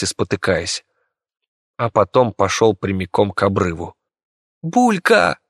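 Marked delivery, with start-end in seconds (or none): 4.6-5.4 high shouted name; scream. Acted. Viki shouts to her rat as the monster stumbles, high alarmed shout. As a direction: call out in alarm. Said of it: "закричала Вики".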